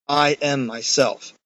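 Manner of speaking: slow, measured "I am myself" with weight on "I"; drawn-out, evenly weighted "I am myself"; emphatic. Acted. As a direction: state "I am myself" deliberately, word by word. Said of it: "It's a very emphatic way of saying that".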